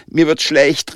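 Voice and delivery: stiff call. A narrator's reading. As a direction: call out stiffly that you feel sick, pitch up. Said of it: "rief Andy steif".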